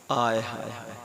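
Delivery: soft, low, stifled little cry; a small cry choked back at once; suppressed cry. Acted. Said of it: "हल्की सी चीख निकली, हल्की सी, और दबा लिया". (दबी हुई हल्की चीख)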